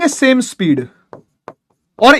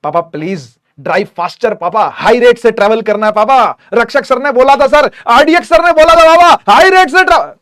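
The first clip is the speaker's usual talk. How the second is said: put-on kid begging dad. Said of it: "बोलोगे".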